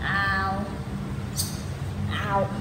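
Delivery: soft pained ow after a fall; tripping and falling. Real, not acted. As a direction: wince from a knee knock. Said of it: "my knee hurts".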